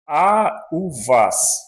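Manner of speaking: a u vas said high and bright as a question; Russian a u vas. Shown as a demonstration. Teacher models the polite return question, rising. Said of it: "Aí você pergunta".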